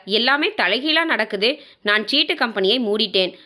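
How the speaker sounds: measured storytelling with lightly acted dialogue; story narration. Narrator telling listeners of Ramya's downfall, story narration. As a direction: read it out as a domestic drama.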